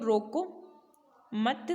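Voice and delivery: "रोको मत" kept as one group; low, soft "रोको मत", then stop; comma after मत. Shown as a demonstration. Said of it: "comma".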